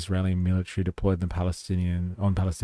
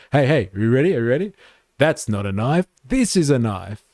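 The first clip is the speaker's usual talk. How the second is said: raised, louder movie-quote performance; imitated eager bouncer; 4 semitones higher, 6 dB louder than usual. Bouncer quoting a movie at the Australian, mock eagerness. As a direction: act out someone proudly doing a film line. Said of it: "they're just like".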